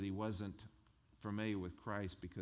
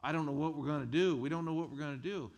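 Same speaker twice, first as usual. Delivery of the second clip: loud, high, fast begging; loud, high pleading from a desperate crowd; desperate plea; 5 semitones higher, 7 dB louder than usual. Retold or imitated. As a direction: beg urgently for rescue. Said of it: "went to Jephthah and said".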